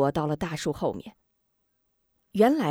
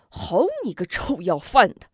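angry curse; 2 semitones higher, 5 dB louder than usual. Acted. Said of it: "骂一声".

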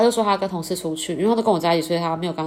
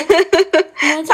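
drawn-out, louder, higher accusing quote; slow, loud mock interrogation; mock menacing; 10 semitones higher, 8 dB louder, much slower than usual. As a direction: lean on it slowly like a jealous girlfriend. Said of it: "超可怕的。".

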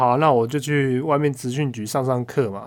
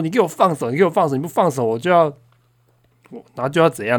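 higher, louder mock yell as the dad; 被压住的老爸大吼; angry father yelling; 4 semitones higher, 3 dB louder, faster than usual. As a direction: bark it as the pinned-down father. Father yelling while pinned down.

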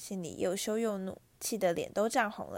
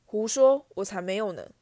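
angry denial; 4 dB louder than usual. Acted. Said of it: "哈利紧握拳头愤怒地说".

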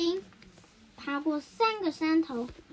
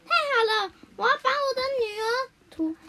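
high, loud delight; overjoyed mouse chief; happy; 8 semitones higher, 4 dB louder than usual. A narrator's reading. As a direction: burst out with glad relief. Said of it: "老鼠村长高兴地说".

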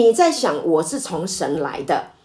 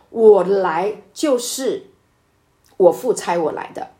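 slow, slightly louder proclamation; loud declaration. Acted. Preacher voicing Jesus crying out in the temple, slow and slightly louder. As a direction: proclaim it slowly to the crowd. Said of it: "他就很大声的说".

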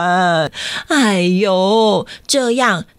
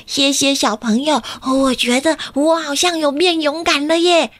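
a hint of a higher child voice; thankful small boy feeling braver; grateful little boy; 4 semitones higher than usual. Kakai thanking the children, lightly voiced child. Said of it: "卡卡伊也说".

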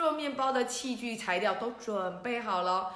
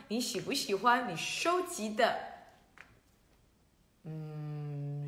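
ordinary delivery, nothing marked

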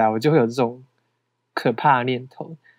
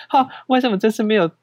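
brief higher huff at herself; mock self-annoyance; 7 semitones higher than usual. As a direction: grumble at yourself, half-joking. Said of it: "心里就会气自己说".

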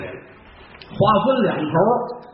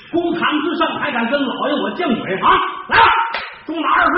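higher-pitched stern rebuke from the bench; stern magistrate's order; 5 semitones higher than usual. Acted. Magistrate angrily sentencing the defendant to a beating.

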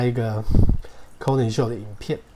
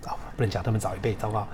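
hushed, fast self-correction; embarrassed aside; 3 semitones lower, 5 dB quieter, much faster than usual. Real, not acted. Teacher catching a slip about hosts' age, hushed. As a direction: mutter it like you've said too much.

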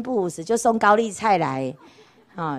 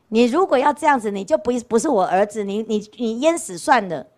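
a stern mother threatening her son, a bit louder; mock fury of a mother throwing her son out; retelling a mother's angry threat, moderately raised voice; angry mother scolding; 4 dB louder than usual.

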